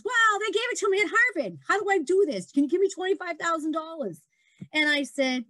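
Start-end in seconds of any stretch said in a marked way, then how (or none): 0.0-4.2 mimicking Zuckerberg. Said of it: "And he says".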